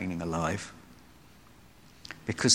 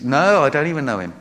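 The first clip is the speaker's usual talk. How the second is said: firm denial; 3 semitones higher, 6 dB louder than usual. Retold or imitated. Peter's final denial.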